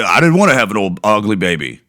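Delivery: put-on mom voice. Vlogger mocking the mother's line in a lightly put-on voice. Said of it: "Nobody in my family really talks like that".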